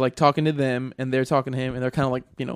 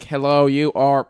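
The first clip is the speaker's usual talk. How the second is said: stiff robot voice; 3 dB louder, slower than usual. Shown as a demonstration. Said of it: "it's not like".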